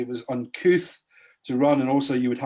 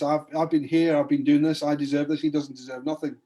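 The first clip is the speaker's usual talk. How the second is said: self-righteous; 3 semitones higher than usual. Retold or imitated. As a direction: puff yourself up, sure you earned it all. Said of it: "he's all self-righteous".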